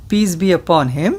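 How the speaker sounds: slow, over-enunciated dictation for repeating; said slowly. Shown as a demonstration. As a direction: spell out each word slowly to be repeated. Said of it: "I will say this slowly".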